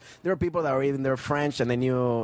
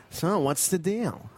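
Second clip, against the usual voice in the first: slow, higher-pitched booker impression; Tommy; 5 semitones higher, much slower than usual. Booker approaching a comic watching the show, slow impersonation. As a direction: draw it out like the club booker. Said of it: "that's a great Tommy".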